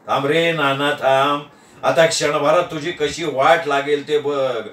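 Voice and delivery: low-pitched gloating aside; low, plotting to himself; muttered inner threat. Acted. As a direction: think it aloud, dropped low. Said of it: "असं मी मनातल्या मनात म्हणालो".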